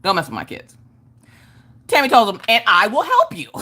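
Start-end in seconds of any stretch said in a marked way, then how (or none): 2.5-3.5 weird voice. Retold or imitated. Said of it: "in this weird voice".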